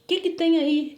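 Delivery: acted insistent questioning; retold demanding question. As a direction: quiz someone as the stranger did. Retold stranger quizzing her.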